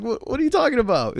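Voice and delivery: high, baffled mock protest; mock bewildered. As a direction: play innocent and lost. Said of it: "I'm like".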